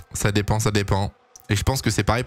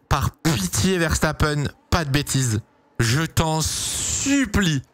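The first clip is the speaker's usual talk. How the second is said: slow pleading; 3 semitones higher, much slower than usual. Real, not acted. Streamer begs driver before start.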